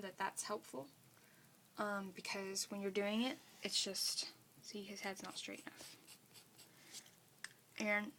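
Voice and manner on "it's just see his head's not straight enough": talking around a pencil in teeth; pencil in mouth. Real, not acted. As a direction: speak with a pencil held in mouth. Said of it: "hang on, I put my pencil in my mouth".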